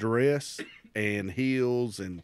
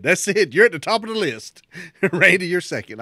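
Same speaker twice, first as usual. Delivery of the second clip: loud, high proclamation; boss laying down verdict; 8 semitones higher, 10 dB louder than usual. Retold or imitated. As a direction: imitate a fed-up boss announcing a ranking. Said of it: "And my boss said".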